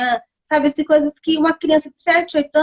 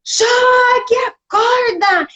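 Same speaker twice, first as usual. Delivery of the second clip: higher, louder mock alarm call; retold shout; 10 semitones higher, 4 dB louder, much slower than usual. Someone in the son's story shouts a warning, retold yell. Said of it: "Aí alguém gritou".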